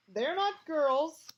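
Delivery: a sulky ghost shrilling at intruders; ghost girl voice. Acted. Ghost girl scolds boys in her bathroom, high whiny voice.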